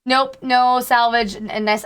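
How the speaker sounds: slow, lightly put-on Southern drawl; a hint of a Southern accent. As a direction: try out a Southern accent, unhurried. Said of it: "thanks for complimenting me on the Southern".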